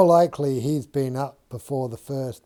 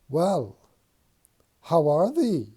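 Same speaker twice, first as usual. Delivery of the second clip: playful voice put on to address a shoe; talking to a shoe; 4 semitones higher than usual. George speaking to Mary's shoe, playful mock address. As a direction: coax the shoe like a small friend. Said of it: "He addresses one shoe".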